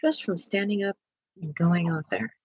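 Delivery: out of breath. Real, not acted. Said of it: "just to catch my breath again".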